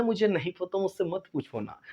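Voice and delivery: mock student whine. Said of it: "अब ये नहीं बोलना".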